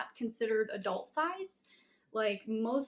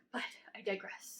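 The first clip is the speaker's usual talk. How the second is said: soft whispered aside; 6 dB quieter than usual. Real, not acted. Aside after tangent.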